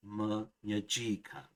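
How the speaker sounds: "menyajikan" slow and syllable by syllable, falling at the end; unchanged accent pattern. Shown as a demonstration. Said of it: "does not perturb the accent pattern".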